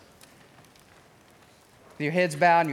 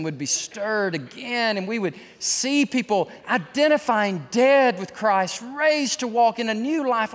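closing prayer. Acted. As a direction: pray over the congregation.

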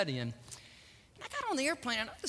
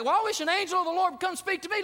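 doubting listener; 10 semitones higher, 5 dB louder, faster than usual. Retold or imitated. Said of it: "looking at me like".

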